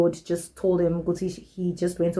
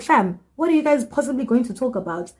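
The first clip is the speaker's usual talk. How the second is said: higher-pitched disbelieving challenge; incredulous; 5 semitones higher than usual. Acted. Narrator reacting in her head to the guy, incredulous. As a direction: question them as if it's absurd.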